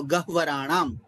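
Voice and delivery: "गह्वराणाम" with h ahead of a full v; correct pronunciation. Shown as a demonstration. Teacher summing up for a student, careful "गह्वराणाम". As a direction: demonstrate "गह्वराणाम", sounding h then v. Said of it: "इस तरह उच्चारण होगा".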